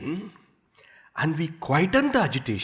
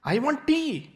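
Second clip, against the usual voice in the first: tea drinker; 13 semitones higher, slower than usual. Retold or imitated. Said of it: "that person says".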